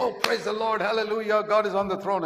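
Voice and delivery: high-pitched church exclamations; mimicked praise. Meek Christians at meetings, mock fervent praise. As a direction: imitate worshippers exclaiming at a meeting.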